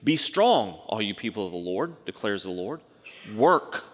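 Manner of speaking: solemn scripture read from the pulpit. Acted. Reads scripture passage aloud.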